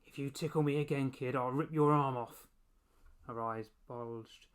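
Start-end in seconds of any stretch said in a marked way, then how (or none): 0.0-2.5 put-on croaking baby monster. A narrator's reading.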